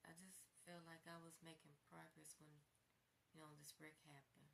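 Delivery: a hushed, downcast reply; quiet sad reply. Retold or imitated. Quoting her sad reply.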